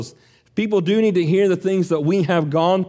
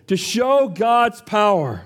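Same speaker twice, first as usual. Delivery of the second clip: preaching shout; 5 semitones higher, slower than usual. Real, not acted. Preacher builds to climax.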